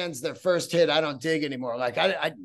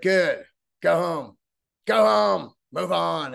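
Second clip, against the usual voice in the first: mock shout; 2 semitones higher, 4 dB louder than usual. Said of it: "And I was like".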